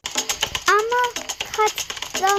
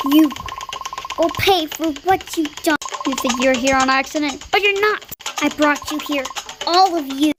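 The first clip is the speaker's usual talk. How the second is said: lower, menacing villain threat; lightly voiced lower villain; 5 semitones lower than usual. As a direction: growl it like the evil mastermind. Villain taunting the passengers.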